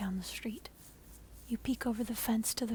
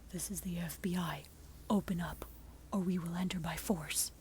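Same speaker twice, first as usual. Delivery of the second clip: a touch lower, calm whispered threat; lightly voiced cold agent; 3 semitones lower than usual. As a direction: FBI agent ordering you to open. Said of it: "he says calmly".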